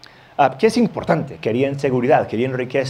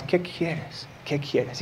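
soft question; 3 semitones higher, 10 dB quieter, much slower than usual. Acted. Imagines Jesus asking softly.

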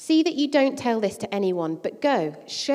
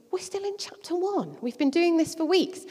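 higher, put-on complaining voice; mock weary congregant; 8 semitones higher than usual. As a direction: sigh it like a bored listener. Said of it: "for those of you thinking".

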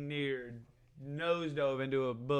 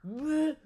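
high mock gag; imitated retching; 12 semitones higher than usual. Friend panicking over jail, imitated gagging. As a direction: fake a sick heave from nerves. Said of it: "stuff that he would throw up about".

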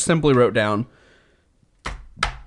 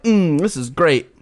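mock savoring; 3 semitones higher, slower than usual. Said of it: "and are like".

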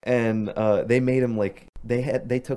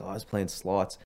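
unexcited deadpan; 6 dB quieter than usual. Retold or imitated. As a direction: shrug it off quietly, no excitement. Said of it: "This is how he was, too. It wasn't, like, excited".

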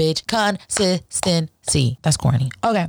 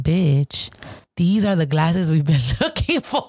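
breaking into a laugh mid-line; laughing through the quote; 2 semitones lower, slower than usual. Retold or imitated. To friend J D over the found glasses, laughing. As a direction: giggle out the discovery to your friend.

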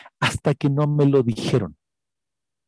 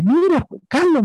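imitando al inglés; 12 semitones higher than usual. Retold or imitated.

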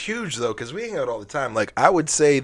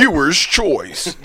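slow drawn-out announcer call; 2 semitones higher, much slower than usual. Shown as a demonstration. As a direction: stretch it out slowly. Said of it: "Do that again".

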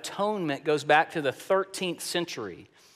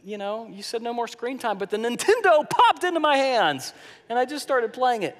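put-on higher, quick whiny kid voice; kid excuse; 5 semitones higher, faster than usual. A kid caught playing Nintendo pleads to Dad, higher and quick. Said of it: "Sounds like kids".

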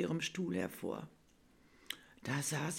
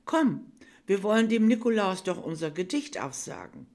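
higher, louder coaxing teacher voice; kind teacher; 3 semitones higher, 7 dB louder than usual. Acted. Teacher coaxing shy Bella to sit, higher and louder. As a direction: coax the shy child gently but brightly.

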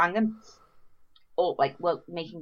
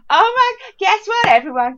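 high, louder call to a crowd; hammed-up call for attention; mock announcement; 11 semitones higher, 8 dB louder, slower than usual. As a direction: announce it to everybody in the room. Announcing news to everyone.

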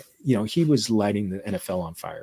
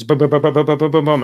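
staccato mock gunfire, louder; machine-gun bums; 5 semitones higher, 6 dB louder, faster than usual. Host mimicking fast Argentine talk as machine-gun fire. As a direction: rattle off bum bum like a machine gun. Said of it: "es como una ametralladora".

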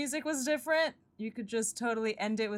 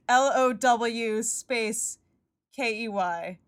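spelled out; 3 dB louder, much slower than usual. Shown as a demonstration. Spells out the name, slowly.

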